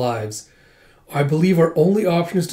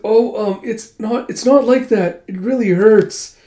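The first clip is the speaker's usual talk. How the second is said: higher, louder flustered protest; flustered girl; 6 semitones higher, 3 dB louder than usual. Retold or imitated. Princess flustered, explaining to Huck, higher and louder. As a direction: stammer it out, embarrassed and hurting.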